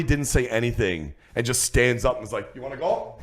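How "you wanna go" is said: quiet, understated retold threat; dead serious challenge. Dad standing up to a bully, quiet and dead serious. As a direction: softly imitate a man calmly offering a fight. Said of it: "He was dead serious".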